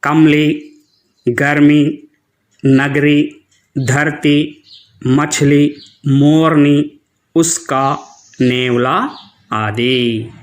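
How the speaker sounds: कमली said as kəmli, the middle schwa dropped; correct schwa-dropped reading. Shown as a demonstration. Teacher models the right reading for the children, schwa dropped. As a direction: demonstrate गर्मी with the middle schwa silent, teacher-style. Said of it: "जैसे देखिए बच्चों".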